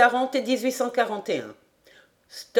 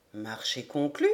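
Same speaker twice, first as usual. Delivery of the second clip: lower, softer, settled voice of the major; calm major; 9 semitones lower, 8 dB quieter than usual. A narrator's reading. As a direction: seal the deal quietly. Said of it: "demanda McNabbs".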